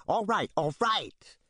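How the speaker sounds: high, impatient call over the shoulder; shouting back. Acted. Bogus calls back to a woman, lightly voiced impatience. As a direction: wave her off. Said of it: "shouts back at a woman".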